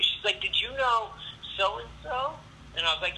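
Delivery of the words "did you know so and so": high-pitched girl imitation; quizzing girl. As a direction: ask in a mock girly voice. Imitating Jenny quizzing him.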